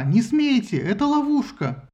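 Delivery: high, slow desperate warning cry; shouting warning. A narrator's reading. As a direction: warn the crowd at full voice. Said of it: "кричала она". (отчаянный крик)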